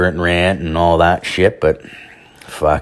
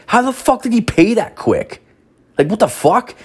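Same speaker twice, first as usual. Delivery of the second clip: much higher, startled disbelief; incredulous. Retold or imitated. Man finding the stranger right behind him, high-pitched disbelief. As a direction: squeal it in comic panic.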